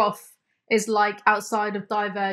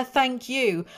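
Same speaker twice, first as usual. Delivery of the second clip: plain, dutiful thank you; polite thank you; 3 semitones higher than usual. Retold or imitated. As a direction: say it automatically, politely. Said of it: "And I said to her".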